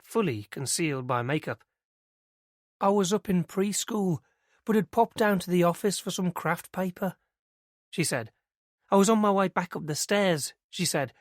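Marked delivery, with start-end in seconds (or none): 2.8-7.2 lightly voiced young woman, pitched higher; earnest young witness telling it eagerly; girl's voice. Christie telling Inspector Mariner what she saw, higher and eager. 8.9-10.5 lightly voiced young woman, pitched higher; earnest young witness telling it eagerly; girl's voice. Christie telling Inspector Mariner what she saw, higher and eager.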